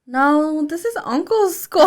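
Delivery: put-on high, loud little-kid protest; mock kid indignation; objecting child. Mother voices her child objecting.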